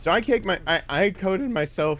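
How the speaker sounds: voice breaking mid-sentence. Talking to the audience while still hoarse from laryngitis, voice cracking. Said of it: "my my voice is cracking".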